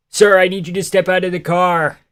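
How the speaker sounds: put-on Philly accent, traffic stop command; Philly cop accent. Streamer plays a Philly cop for chat. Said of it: "how do I do a Philly accent?".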